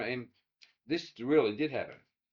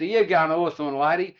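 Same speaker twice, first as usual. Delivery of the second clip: calling out cheekily; 3 semitones higher, 7 dB louder than usual. Retold or imitated. Charlie calling into the car.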